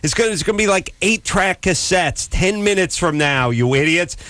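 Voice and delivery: high-pitched exasperated mock rant; retold scream. Host telling the crew the slogan is doomed, mock-screamed rant. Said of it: "I screamed at everyone".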